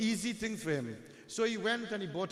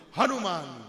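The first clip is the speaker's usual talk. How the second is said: louder, lightly acted summons; calling out; 6 dB louder than usual. Sugriv calls upon meditating Hanuman, firm calling out. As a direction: call upon him firmly by name.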